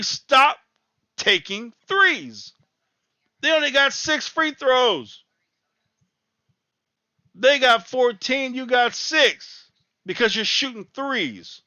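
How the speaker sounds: angry fan yelling orders at the TV; yelling at the team. Real, not acted. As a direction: shout at the screen in frustration.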